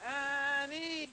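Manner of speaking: high call in a Gullah game. Real, not acted. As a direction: call the name out. Calling child in game.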